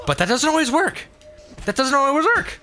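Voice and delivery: high-pitched Australian accent. Shown as a demonstration. Explaining accent rules to listeners, Australian accent. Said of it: "The Australian accent, for instance".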